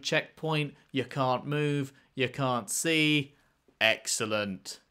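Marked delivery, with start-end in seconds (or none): 3.8-4.8 sarcastic. Real, not acted. Sarcasm after the glitch.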